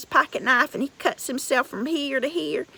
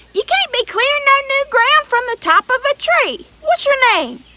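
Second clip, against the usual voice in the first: higher, louder giant voice; giant insisting; 10 semitones higher, 8 dB louder than usual. Acted. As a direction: push harder, booming up the tree.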